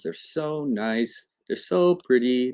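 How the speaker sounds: drawn-out, lingering praise on "so"; admiring. Shown as a demonstration. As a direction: dote on them, stretching "so". Admiring white pawns against black's.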